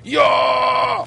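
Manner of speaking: high loud cheer; excited shout. Real, not acted. Gamer nailing a slide, high excited cheer. Sliding success.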